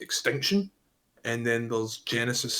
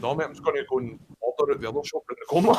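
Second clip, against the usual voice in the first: laughing, fast; much faster than usual. Retold or imitated. Laughing retort to mates.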